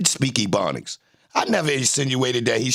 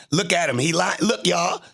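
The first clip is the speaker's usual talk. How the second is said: higher, mocking call to the chat; gleeful taunt; 5 semitones higher than usual. Real, not acted. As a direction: point him out to everyone, gloating. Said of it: "taunt repeated higher".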